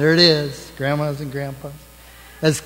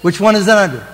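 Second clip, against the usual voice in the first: mock puzzlement; 4 dB louder than usual. Playing shell game with kids.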